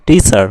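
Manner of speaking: "টিচার" with a strong first syllable "টি"; stress on টি. Shown as a demonstration. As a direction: punch "টি" in "টিচার", then drop. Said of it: "টি যখন বলবে তখন তোমাদের হাতে". ("টিচার"-এর "টি"-তে জোর)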